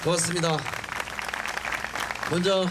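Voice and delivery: hoarse from a cold. Real, not acted. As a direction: voice husky with a cold. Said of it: "목소리가 잠겨서".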